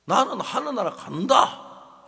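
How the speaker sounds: high, slow, loud declaration of going to heaven; confident boast. Retold or imitated. Father insisting to his son he will reach heaven, proud loud proclamation.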